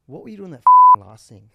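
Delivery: loud, high taunt across the pack; mock yell at a rival jockey. Jockey shouting at a rival rider mid-race, loud teasing yell. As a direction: bellow it at the rider beside you.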